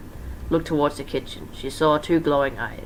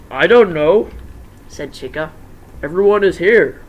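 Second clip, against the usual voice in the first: Chica voice; 3 semitones higher, 8 dB louder than usual. Acted.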